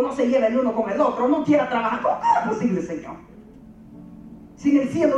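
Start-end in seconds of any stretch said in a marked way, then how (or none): 2.0-3.1 exasperated high cry. Acted.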